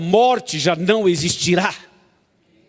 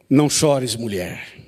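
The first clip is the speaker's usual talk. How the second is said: tender; 6 semitones lower, slower than usual. Retold or imitated. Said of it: "dele é tremendo".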